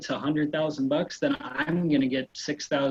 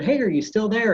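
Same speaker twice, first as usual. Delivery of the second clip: high, loud chipper reply; 9 semitones higher, 6 dB louder than usual. Retold or imitated. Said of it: "And I said".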